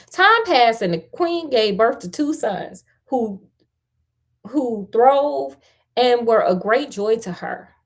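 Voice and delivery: fairy tale read out with emphasis; story narration. A narrator's reading. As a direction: tell it like a lively storyteller. Reads the fairy tale aloud.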